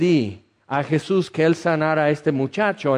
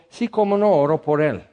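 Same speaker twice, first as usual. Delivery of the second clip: sarcastic. Retold or imitated. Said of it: "Y yo así sarcásticamente".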